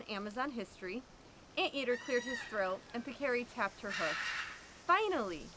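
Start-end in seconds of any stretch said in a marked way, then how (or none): 4.9-5.5 snorted. Acted. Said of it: "she snorted".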